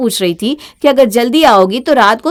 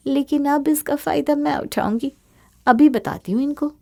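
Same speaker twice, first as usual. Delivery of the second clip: softer, sly, plotting; scheming chuckle; 4 semitones higher, 3 dB quieter than usual. Acted. Bahu plots against in-laws with a sly chuckle. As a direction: savour the advantage. Schemes after learning secret.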